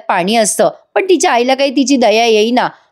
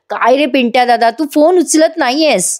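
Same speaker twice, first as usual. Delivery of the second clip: irritated sister; 3 semitones higher than usual. Retold or imitated. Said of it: "ती चिडचिड करते".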